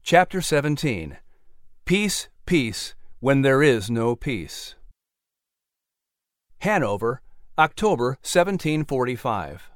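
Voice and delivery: slow, formal audiobook heading; chapter heading read. Acted. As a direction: announce the chapter with weight.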